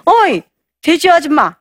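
mock someone with open scorn; contemptuous jeer. Husband sneering at his wife with contempt. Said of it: "경멸은 이거예요".

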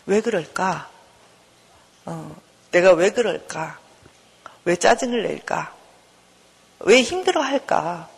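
slow, understanding self-questioning; good-mother wondering. Acted. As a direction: wonder gently, leaving pauses between questions. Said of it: "이제는 좋은 엄마처럼 나를 보는 거예요".

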